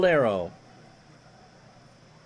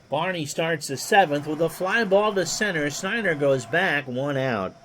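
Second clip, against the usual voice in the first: lightly voiced old radio play-by-play; a hint of a veteran baseball announcer; Ron Juckett impression. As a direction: call it like a ballpark broadcaster, easy and even. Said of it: "My Ron Juckett impersonation is sufficient".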